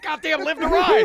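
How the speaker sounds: slow, high, loud biker salute; hammed-up rallying cry, drawn out; acted fervent cheer. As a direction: proclaim it loudly, like a motto. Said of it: "I was like".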